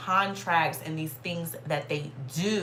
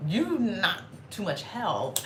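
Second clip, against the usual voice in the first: dry slow grumble; 4 dB quieter, much slower than usual. Retold or imitated. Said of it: "I'm just like".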